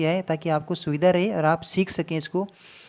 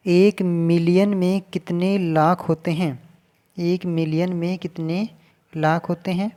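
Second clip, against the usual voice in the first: slow question reading; slower than usual. Shown as a demonstration. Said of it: "reading the question aloud".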